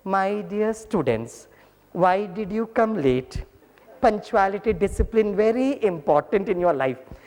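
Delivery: very slow, sweet, drawn-out scolding; very lovingly. Retold or imitated. Teacher lovingly greeting late students. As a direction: melt each word, hand on heart. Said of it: "अभी बहुत प्यार से बोलता हूँ".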